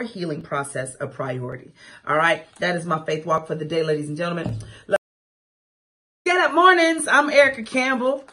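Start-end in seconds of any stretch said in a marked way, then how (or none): 6.2-8.2 higher, louder hype greeting; big bright morning-show shout-out; radio greeting. Real, not acted. Host greeting morning radio listeners, loud and hyped. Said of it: "radio host greeting".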